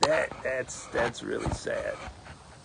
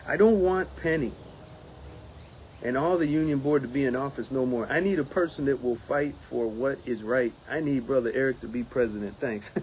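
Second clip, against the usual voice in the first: reading a letter aloud. Shown as a demonstration. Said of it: "there was another sentence".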